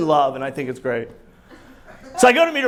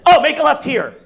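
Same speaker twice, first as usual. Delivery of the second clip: wife as GPS; 7 semitones higher, 6 dB louder than usual. Retold or imitated. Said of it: "my Waze directions goes like this now".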